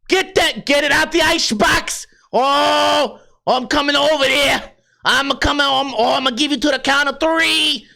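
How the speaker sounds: mock angry scolding. Angry parent threatening someone over the ice box, mock-furious scolding. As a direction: scold in a put-on regional accent.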